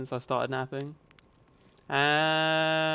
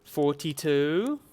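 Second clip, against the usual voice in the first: slow counting; much slower than usual. Shown as a demonstration. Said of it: "Can you count with me".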